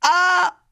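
high, loud shriek; a sharp scream of alarm; piercing short cry; sudden child scream. Acted. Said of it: "Un cri partit".

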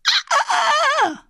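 very high, loud drowning cries; sharp high scream repeated; piercing child scream. Acted. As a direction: shriek in terror. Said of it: "Un nouveau cri perça l'air, très aigu".

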